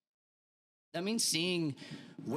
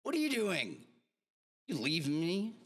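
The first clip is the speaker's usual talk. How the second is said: mock outraged yell; 6 semitones higher than usual. Soldier yelling at Josh for running, mock outrage. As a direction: call after the deserter in outrage. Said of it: "I'd be like".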